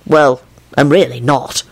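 slow, offhand admission; lazily unbothered, slightly drawn out; careless. A narrator's reading. Culprit casually taking back his apology to the boss, careless. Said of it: "Lupin replied carelessly".

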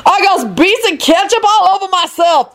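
high-pitched indignant shriek; wailing shriek in a put-on voice. A narrator's reading. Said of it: "Lucretia shrieked".

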